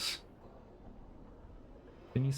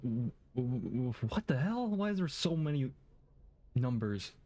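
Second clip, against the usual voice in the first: baffled; 3 semitones higher than usual. Real, not acted. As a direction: shoot up in disbelief. Baffled by the strange name.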